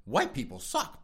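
half-laughed mock realization; laughing mock listener. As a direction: crack up while playing the converted listener. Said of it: "you're gonna be like".

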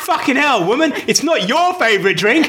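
high-pitched comic outrage; incredulous, half-laughing protest; mock exasperation. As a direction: rant in exaggerated disbelief at a stupid answer. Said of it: "And I went".

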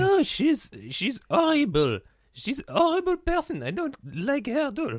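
soft, low-pitched protest; meek denial. Acted. Partner denies liking the contestant, meek and low. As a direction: back away quietly from the accusation.

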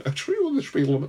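slurred, garbled attempt at a Scottish accent; badly faked Scottish burr; Scottish-sounding accent. Policeman to the driver, botched Scottish accent. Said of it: "Is he from Scotland?".

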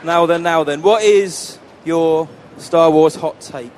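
slow, pompous bobby voice; dim pompous cartoon cop. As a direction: play a dim plod on the beat. Host greets guest as a cop.

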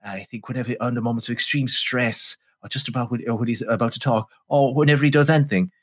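lightly voiced buttoned-down British elite actor; hint of a repressed upper-class thespian, drawing out the opening; Donald Pleasence. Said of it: "buttoned down, repressed, member of the British elite".

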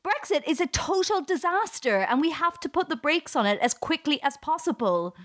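partisan declaration. Shown as a demonstration. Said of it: "I can say stuff like".

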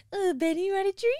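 high, loud dog-treat voice; weird voice. Retold or imitated. Offering the other dog a treat, weird high voice. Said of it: "like, a weird voice".

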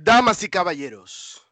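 booming ring announcer, stretched-out name; lucha libre announcer. Shown as a demonstration. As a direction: introduce him like a Mexican ring announcer. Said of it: "why don't you tell them who it is?".

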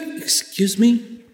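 slow, drawn-out disbelieving excuse me; incredulous. Retold or imitated. Speaker answering skeptics who doubt peace, slow and incredulous. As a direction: stretch it out, stunned by what he heard.

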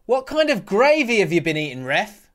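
retold yell. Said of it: "he yelled".

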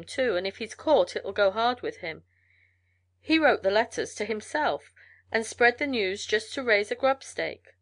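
lightly voiced lively trail man; gossiping mail carrier. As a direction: spread the gossip with a little extra push. Mail carrier tells the story.

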